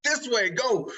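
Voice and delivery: high-pitched, hesitant then decisive; mock flustered. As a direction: imitate a panicked last-second decision. Retold snap decision under time pressure.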